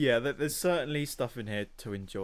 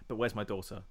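quieter, lower, understated mum; calm, deadpan imitation; 4 semitones lower, 4 dB quieter, faster than usual. Imitating Kamala's mum asking after her daughter, calmly. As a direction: quote it with mild, comic calm. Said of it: "calm and".

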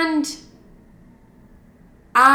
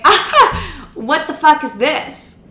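laughing disbelief; 6 semitones higher, 5 dB louder, much slower than usual. Retold or imitated. Laughing at his phone number request.

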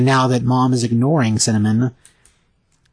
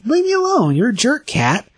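much higher, snippy dismissal; shrill brush-off; 11 semitones higher than usual. Retold or imitated. Mom rejecting the apologizing cat, high snippy brush-off. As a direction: swat the cat away with a high snap. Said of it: "and she's like".

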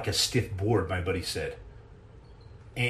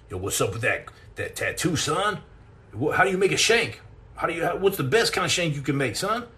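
mock street-tough voice, jumping higher on son; gangster impression; 5 semitones higher than usual. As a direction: play a wannabe gangster, hammed-up. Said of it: "why do you have all these, like, gangland, uh, comments".

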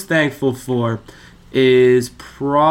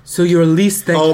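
put-on accent; 3 semitones higher, 6 dB louder than usual. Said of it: "please drop the accent".

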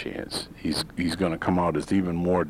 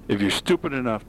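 "stupid" raised in pitch for emphasis; stress on stupid; 5 semitones higher than usual. Real, not acted. Host on voters swayed by Facebook, stressing "stupid". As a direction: make "stupid" stand out in capital letters. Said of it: "I emphasize the word stupid in capital letters".

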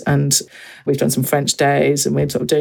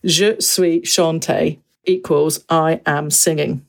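slow reading out; much slower than usual. Retold or imitated. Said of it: "'cause I saw".

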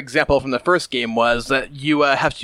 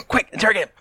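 laughing; 7 semitones higher than usual. Acted. Tricking the paladin scene.

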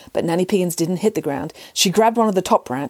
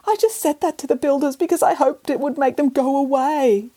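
high, lightly voiced haughty cat; snooty bored cat; 8 semitones higher than usual. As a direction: play the cat, aloof and weary.

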